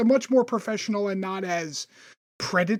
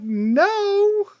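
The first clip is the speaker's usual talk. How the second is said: flat refusal; 12 semitones higher, 5 dB louder than usual. Retold or imitated. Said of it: "And I'm like".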